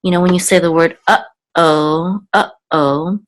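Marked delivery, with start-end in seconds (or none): 1.1-3.2 uh-oh with a stop between uh and oh; uh-oh with a pause. Shown as a demonstration. Teacher giving students an everyday example, paused. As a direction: break uh-oh into two beats. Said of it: "there's a pause between uh and oh".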